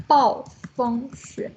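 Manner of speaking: word slowly spaced out syllable by syllable; drawn out for learners; slow modelling. Shown as a demonstration. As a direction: demonstrate the new word slowly. Teacher models new vocabulary word.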